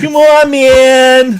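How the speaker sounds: high, slow, dreamy hippie voice; stoner hippie drawl. Pretend. Reacting to hippie van picture.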